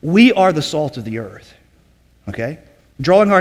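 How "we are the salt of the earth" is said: "We" lifted above the falling rest; emphatic WE. Shown as a demonstration. Teacher applying the verse to disciples, stress on "We". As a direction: put the weight on "We", then ease down. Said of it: "he's emphasizing to those individuals".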